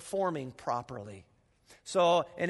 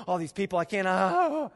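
mock panic. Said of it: "We start going".

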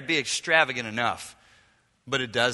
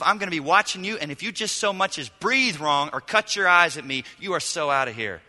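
mock father's lecture. Father lecturing the returned son, mock stern. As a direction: play the disappointed father laying down the law. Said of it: "some lecture from the Father saying".

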